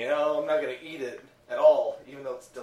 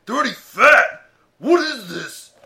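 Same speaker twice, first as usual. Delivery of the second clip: loud, high outraged disbelief; can't believe the label; shocked disbelief; 5 semitones higher, 10 dB louder, slower than usual. Real, not acted. Shocked reading the box label.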